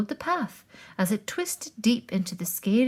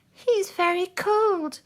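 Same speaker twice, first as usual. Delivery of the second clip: sad; 10 semitones higher than usual. A narrator's reading. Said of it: "said Moose".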